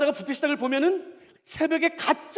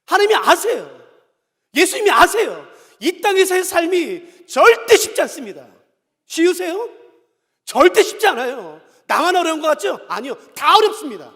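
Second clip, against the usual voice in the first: loud, high-pitched sermon delivery; impassioned preacher driving the point home; forceful preaching; 5 semitones higher, 10 dB louder than usual. Real, not acted. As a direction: proclaim it to the whole congregation.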